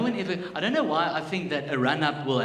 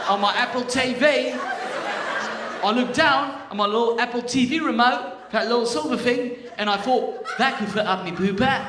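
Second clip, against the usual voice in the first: put-on loud, high-pitched British accent; hammed-up British lad, pitched high and loud; 8 semitones higher, 7 dB louder than usual. Patient telling doctor about the remote, British accent. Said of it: "I'm just gonna get it back quickly".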